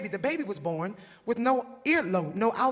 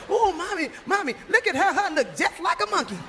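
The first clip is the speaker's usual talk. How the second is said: put-on high, excited little boy blurting out; high giggly kid voice; child's voice; 8 semitones higher, 4 dB louder than usual. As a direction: squeal it like a toddler amazed. Child Skeeter blurts in restaurant.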